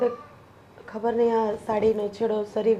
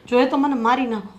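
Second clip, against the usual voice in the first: louder, pleading defiance; defiant outburst; 4 dB louder than usual. Acted. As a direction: throw the words back at her. Daughter-in-law defies mother-in-law. (સાસુને પડકારતી ઊંચી બૂમ)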